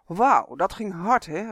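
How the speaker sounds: luide, opgetogen elfenroep naar achteren; roepen. Acted. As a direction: roep het uit, vol plezier. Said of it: "riep hij". (uitgelaten elf roept vanaf de drakenrug)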